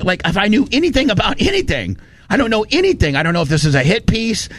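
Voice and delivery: high-pitched retold protest; exasperated. Host replaying his pushback to Alex, exasperated.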